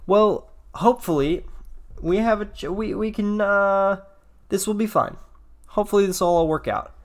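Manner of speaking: high, flustered real nerves; panicky. Real, not acted. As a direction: rush it, rattled and nervous. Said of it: "panicking a little bit".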